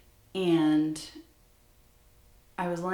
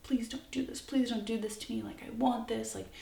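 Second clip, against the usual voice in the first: higher-pitched imitation of begging; mock desperate begging in a raised voice; retold pleading; 5 semitones higher than usual. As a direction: plead urgently, without real tears. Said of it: "was begging me and crying".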